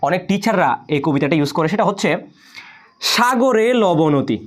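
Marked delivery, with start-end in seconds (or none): 3.1-4.4 slow, drawn-out teaching line; slow mnemonic recitation. Shown as a demonstration. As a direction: recite the memory rhyme slowly, word by word. স্মৃতিসহায়ক ছড়া আবৃত্তি. (ধীরে টেনে টেনে ছড়া আবৃত্তি)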